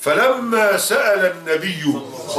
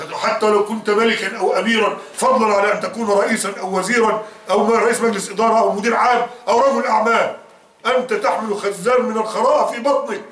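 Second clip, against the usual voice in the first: preacher's rebuke rising higher into a shout; building rebuke; 4 semitones higher than usual. Acted. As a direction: build the scolding up until it breaks into a shout.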